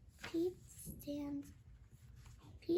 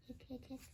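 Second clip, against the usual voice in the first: whispered hiccups; 7 dB quieter, much faster than usual. Acted. Pete hiccups.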